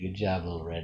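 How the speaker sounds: plain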